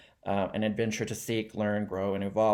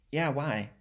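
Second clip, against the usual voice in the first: casual, softly offhand reply; nonchalant; 3 semitones higher, 4 dB quieter than usual. Acted. A singer's son answering his stunned friend, nonchalantly. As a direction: toss it off as if it's nothing. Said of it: "he's like, nonchalantly".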